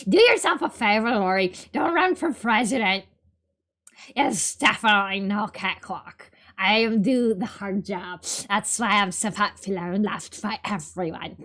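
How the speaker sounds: cartoon princess. Luke voice continues.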